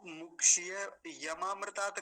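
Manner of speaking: मुक्षीय यमामृतात् with ya carried into yamaamritaat; wrongly joined ya. Shown as a demonstration. Teacher showing reciters' mistake, wrongly joined ya. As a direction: glue a ya onto the front of maamritaat. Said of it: "कई बार यहाँ".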